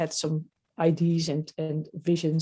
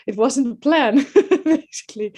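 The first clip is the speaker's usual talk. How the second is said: higher and louder, laughing through the words; 7 semitones higher, 6 dB louder than usual. Real, not acted. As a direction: laugh it off, a little embarrassed. Laughing at being overwhelmed.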